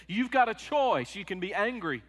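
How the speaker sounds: quoting the movie pastor with rising emphasis; pastor's advice. Retold or imitated. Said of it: "he said".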